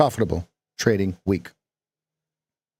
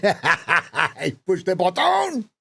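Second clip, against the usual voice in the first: slow, higher mock French accent through a laugh; 7 semitones higher, slower than usual. Shown as a demonstration. Coach laughs through a French accent. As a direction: laugh while faking French. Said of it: "how Americans think that French speak".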